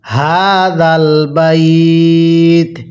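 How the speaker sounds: very slow, drawn-out melodic recitation; slow chanted tajweed reading; Quran recitation. Shown as a demonstration. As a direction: recite each syllable long and sung. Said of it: "মিলিয়ে পড়ুন".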